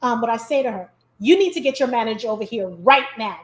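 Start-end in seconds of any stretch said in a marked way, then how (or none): 1.2-3.4 firm and flat, as if about to complain; stern, no-nonsense. Shown as a demonstration. A diner sternly summoning the server's manager, deadpan. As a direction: play it dead serious so the server worries. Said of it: "This is exactly how I say it".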